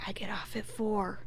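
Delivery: acted flirty whisper; leaning-close whisper. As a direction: whisper it privately into someone's ear. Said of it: "leans closer to Samantha".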